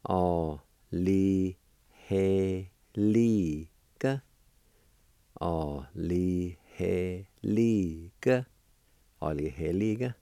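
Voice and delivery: Alihelika, ending on a clear a; Cherokee word. Shown as a demonstration. Teacher to students, modelling Alihelika for gratifying. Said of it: "it's pronounced like this".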